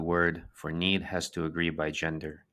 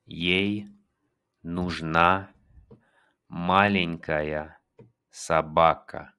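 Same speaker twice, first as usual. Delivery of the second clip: slow, clear Russian sentence; teacher demo; slow model; 4 dB louder, much slower than usual. Shown as a demonstration. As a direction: stretch "маленькая" slowly. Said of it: "teacher models slowly".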